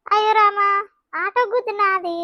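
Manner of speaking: loud, high alarmed exclaiming; shocked loud cry. Acted. Shocked at neighbour's head injury. (గాయం చూసి గట్టిగా అరిచే ఆందోళన)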